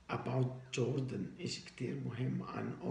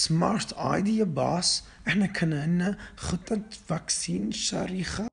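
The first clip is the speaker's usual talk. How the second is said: excited shout; 5 semitones higher, 10 dB louder than usual. Acted. Mafia underling excitedly praises boss.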